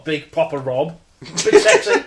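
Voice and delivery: sultry voice. Acted. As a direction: purr then squeal. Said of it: "my sexy cold voice".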